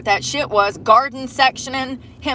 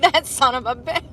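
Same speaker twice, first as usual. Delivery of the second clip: mock anger; 5 semitones higher than usual. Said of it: "I'm like".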